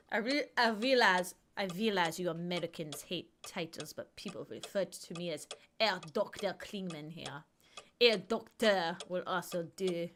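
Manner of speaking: lightly put-on German accent reading the doctor; mock German doctor, barely there; a hint of German accent for the character; bad German accent. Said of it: "I know my accent's terrible".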